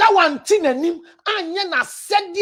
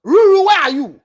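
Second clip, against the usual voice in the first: louder call across the room; 6 dB louder than usual. Real, not acted. Preacher breaking off to call someone, loud call. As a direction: call out for Ruru, raised voice. Calling out to someone mid-talk.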